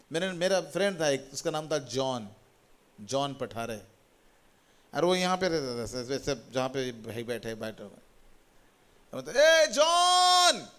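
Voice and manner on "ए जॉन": acted-out, very high, loud hollering shout. Recalling calling to a friend in the village, retelling a loud shout. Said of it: "ए इतना क्यों चिल्ला रहा है".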